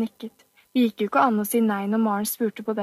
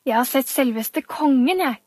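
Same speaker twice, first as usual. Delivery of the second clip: boasting loud; 2 semitones higher, 3 dB louder than usual. Acted. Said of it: "sa han så høyt".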